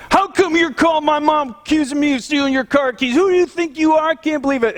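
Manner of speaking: high, outraged accusing voice; indignant customer. Retold or imitated. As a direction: play the offended thief. Angry customer on phone.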